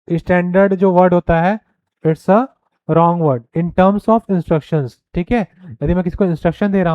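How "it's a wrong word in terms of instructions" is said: very slow, each word spaced out; dictating a point; slow dictation. Shown as a demonstration. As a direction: read it slowly so students can write. Reading slide point aloud.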